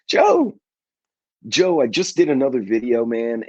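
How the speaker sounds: sudden high shout of a name; calling out. Real, not acted. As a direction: call out across the room to get his attention. Calling out to a viewer.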